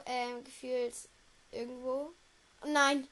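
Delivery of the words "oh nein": shocked cry. Real, not acted. Shocked by the video.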